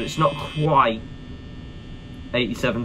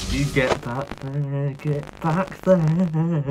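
slow stern command; much slower than usual. Acted. Shooing animatronic slowly.

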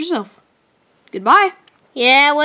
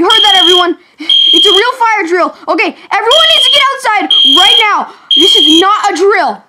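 urgent; 3 dB louder than usual. Real, not acted. Urgent fire drill orders.

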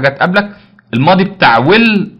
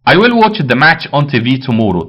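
slow dictation; much slower than usual. Shown as a demonstration. Teacher reads exercise sentence slowly.

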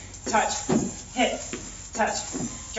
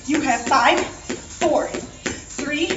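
coaching shout; 3 semitones higher, 3 dB louder than usual. Real, not acted. Pushing class through final sprint.

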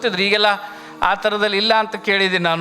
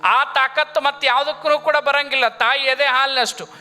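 higher-pitched, sustained sermon delivery; preaching; 4 semitones higher than usual. Real, not acted. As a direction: preach it in long, raised phrases. Preacher exalts mother's milk.

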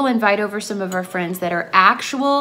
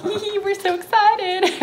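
imitating excited friends; 11 semitones higher than usual. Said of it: "they were like".

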